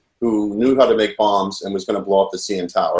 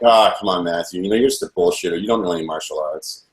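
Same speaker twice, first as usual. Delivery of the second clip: retold taunt, pitch sagging lower toward the end; mock teasing; 3 semitones lower than usual. Captor goading his captive about martial arts, imitated in a mild teasing way. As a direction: imitate someone needling with a low-key dismissive jibe. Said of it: "he's teasing me like".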